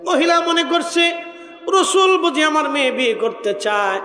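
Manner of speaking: sing-song preaching with long held line endings; melodic sermon storytelling. Acted. Preacher tells a congregation of the Prophet's proposal, melodic sermon storytelling.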